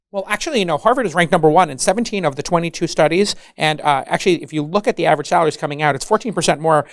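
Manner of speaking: a lightly voiced know-it-all Harvard grad; smug Harvard kid. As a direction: reel off the stats smugly. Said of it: "they're like".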